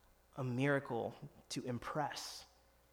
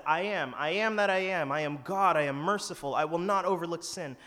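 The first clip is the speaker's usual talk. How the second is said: booming proclamation, louder and higher; God proclaiming; 3 semitones higher, 8 dB louder than usual. Acted. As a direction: announce it like God declaring his name. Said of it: "where God said".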